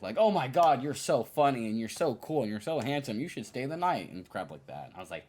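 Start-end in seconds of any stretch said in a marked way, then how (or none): 0.2-4.1 mock gushing partygoer. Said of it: "treating me like I'm some amazing new object".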